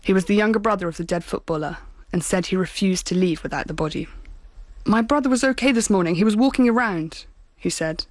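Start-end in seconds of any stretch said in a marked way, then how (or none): 4.8-7.3 higher, louder, cracking with fury; angry. Retold or imitated. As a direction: let the anger push the words up. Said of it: "his voice cracking with fury".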